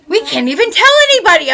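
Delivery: fast, loud, whiny mock wail; mock horrified kids. Kids reacting to French Canadian news, mock wail. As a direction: ham up the kids' despair. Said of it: "My kids all went".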